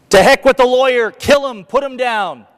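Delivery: high angry shout; bay for his head; crowd shouting. Retold or imitated. Speaker voicing the mob demanding the lawyer be killed, high angry shout.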